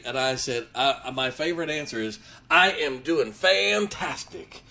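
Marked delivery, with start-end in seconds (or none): 2.5-4.6 exuberant greeting. Retold or imitated. His favorite cheerful answer.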